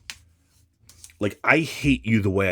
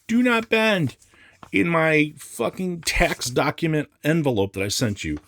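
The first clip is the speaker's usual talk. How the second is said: much higher, sneering mock reading; 11 semitones higher, 3 dB louder than usual. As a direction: mimic the label with contempt. Reading label in mocking voice.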